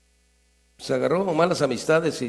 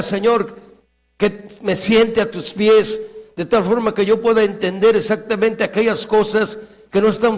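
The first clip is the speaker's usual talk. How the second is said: pleading prayer; 4 semitones higher, 3 dB louder than usual. Acted. Preacher voicing King David's prayer.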